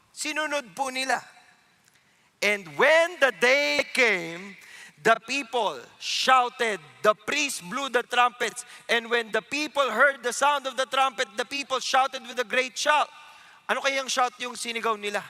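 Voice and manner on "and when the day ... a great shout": slow, deliberate Bible reading; scripture reading. Acted. Preacher reading the Jericho verse to the kids, slow. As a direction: read the verse like proclaiming it.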